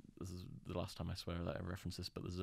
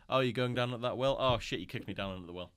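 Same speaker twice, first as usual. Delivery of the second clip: high, loud, hammed-up surprise; a jokey put-on yelp; mock Henry reaction; 4 semitones higher, 9 dB louder than usual. Henry mocked as shrugging off the well fall, loud and high.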